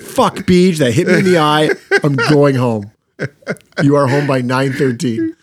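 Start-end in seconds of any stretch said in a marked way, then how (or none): 0.0-2.9 mock annoyed outburst. Guest replaying the eye injury in current day, mock annoyed. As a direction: play an annoyed guest calling it quits. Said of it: "let's replay it in current day".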